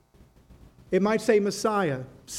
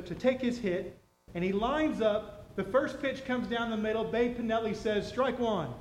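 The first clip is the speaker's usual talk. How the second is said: hushed storytelling; 7 dB quieter than usual. Acted. Hushed build-up of baseball story.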